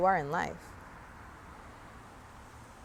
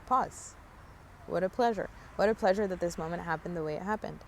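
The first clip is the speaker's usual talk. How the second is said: calm self-soothing; 3 dB quieter than usual. Retold or imitated. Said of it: "in that moment, I was like".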